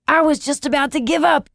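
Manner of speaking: admitting. A narrator's reading. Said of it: "Gingham Dog admitted".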